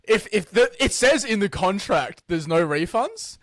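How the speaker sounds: imitating a British sales rep; British accent. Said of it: "he's got this British accent".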